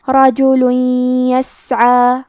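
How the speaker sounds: رجل یسعی with tanween merged into a nasal ya; idgham with ghunna. Shown as a demonstration. Teacher shows nasal merging to students, careful recitation. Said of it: "غنہ اور تشدید کے ساتھ ادا کریں گے".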